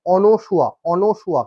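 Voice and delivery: অনসুয়া as ɔ-no-shua, falling at the end; correct pronunciation. Shown as a demonstration. Teacher giving students the right form, অনসুয়া with "no". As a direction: model অনসুয়া firmly, open first vowel and "no". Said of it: "এর উচ্চারণ কিন্তু".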